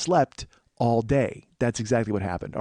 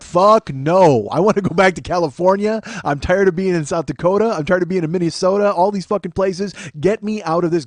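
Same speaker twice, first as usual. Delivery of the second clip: raised, exasperated rant; fed-up refusal; 3 semitones higher, 4 dB louder than usual. Retold or imitated. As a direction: refuse loudly, sick of the place. Acting out his fed-up refusal.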